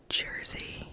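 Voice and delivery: put-on Jersey in a whispered New Jersey Italian accent, the r-coloured vowel pulled out; Jersey like him. Whispering Jersey the way her host says it, New Jersey Italian accent. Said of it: "I say it like him now".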